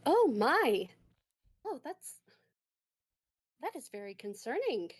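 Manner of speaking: lightly acted, haltingly concerned; concerned doctor. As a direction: voice the doctor's growing worry. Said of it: "She looks increasingly concerned".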